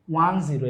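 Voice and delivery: ওয়ান জিরো as two separate digit names; teacher modelling ওয়ান জিরো digit by digit; digit-by-digit reading. Shown as a demonstration. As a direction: read out ওয়ান, then জিরো, each its own word. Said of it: "এটাকে উচ্চারণ করতে হবে এভাবে".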